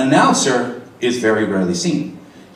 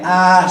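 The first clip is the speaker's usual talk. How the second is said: stretched ah; 5 semitones higher, 3 dB louder than usual. Shown as a demonstration. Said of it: "stretching it as far as you can".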